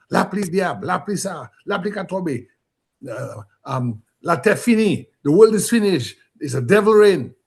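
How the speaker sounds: a woman in shock crying out the world is ending; retold panicked cry in Creole. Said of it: "the woman was in shock, and she was saying a lot of things in patois".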